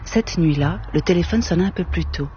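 measured, even literary reading voice; story narration. A narrator's reading. Author reading his novel to the audience, unhurried and even. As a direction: read the novel's opening to an audience. Reads novel aloud with music.

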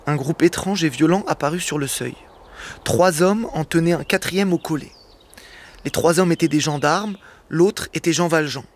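narration posée, lecture à voix haute; lecture de roman. A narrator's reading. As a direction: raconte la scène au public comme un conteur. (lecture de Victor Hugo, ton de conteur)

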